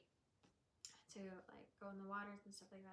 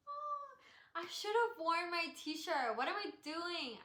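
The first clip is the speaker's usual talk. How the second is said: loud, higher-pitched self-reproach; real loud pang of regret; exasperated outburst; 8 semitones higher, 10 dB louder, slower than usual. Real, not acted. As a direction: wail it in dismay at yourself. Sudden regret about her t-shirt.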